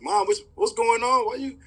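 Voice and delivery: high-pitched, bewildered son questioning mom; bewildered retelling. Retold or imitated. Son reacting to crying mother.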